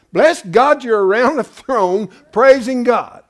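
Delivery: fiery preaching. Real, not acted. Pastor rebuking the congregation's idea of spirits looking down, in a loud fiery preach. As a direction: thunder it from the pulpit. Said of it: "a little off course on my diatribe there".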